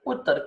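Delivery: ઉત્તર said fast with a short u; short-vowel ઉત્તર; quick short u. Shown as a demonstration. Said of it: "બહુ જલ્દી".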